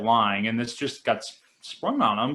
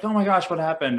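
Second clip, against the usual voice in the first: higher-pitched, lightly acted alarm; mock shock; 6 semitones higher than usual. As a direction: retell a startled reaction with raised pitch. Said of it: "they're like".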